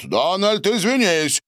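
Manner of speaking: shouted out. A narrator's reading. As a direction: yell at Donald to apologise. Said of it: "выкрикнул Борис".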